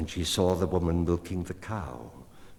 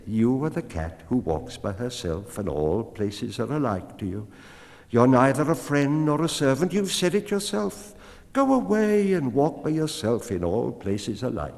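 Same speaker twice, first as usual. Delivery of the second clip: rising to a high, louder taunt; the woman, scornful; 6 semitones higher, 4 dB louder than usual. A narrator's reading. Woman mocks the cat who walks alone, high and scornful. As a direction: throw the cat's words back at her.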